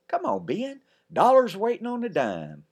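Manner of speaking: high, loud urging; big sister calling brother; hurrying call. Acted. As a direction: hurry him along. Elizabeth hurrying him.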